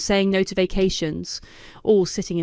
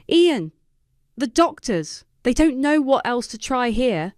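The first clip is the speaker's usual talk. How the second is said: sobbing mother; 6 semitones higher than usual. A narrator's reading. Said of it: "Mom sobbed into the phone".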